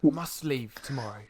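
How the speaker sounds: understated, cool orders to a son; noble father. Acted. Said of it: "The father then replies with".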